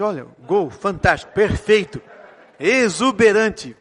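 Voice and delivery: slow, refined cheering that builds in volume; a Santos fan celebrating like a lord; posh fan's goal call. Retold or imitated. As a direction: savour the last word very slowly. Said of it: "Fala assim".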